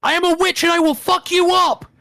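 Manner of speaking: very high, shrill, all-out full-throated scream. Voicing a character who draws a knife and takes a stance: screaming at the top of her lungs. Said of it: "screams at the top of her lungs".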